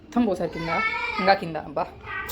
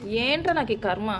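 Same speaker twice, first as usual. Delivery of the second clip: weary lament; 3 dB quieter, slower than usual. Real, not acted. Laments trouble child causes.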